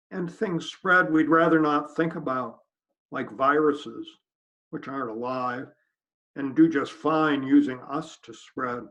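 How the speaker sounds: deliberate poem recital with pauses between lines; poetry reading. Acted. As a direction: recite the verse evenly, phrase by phrase. Reads own new poem aloud.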